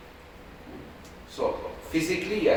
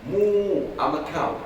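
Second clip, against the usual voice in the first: mock shouting prince; 2 semitones higher than usual. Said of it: "start shouting and telling people".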